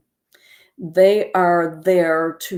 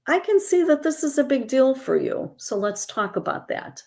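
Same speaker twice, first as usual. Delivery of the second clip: caring reply; 7 semitones higher than usual. Shown as a demonstration.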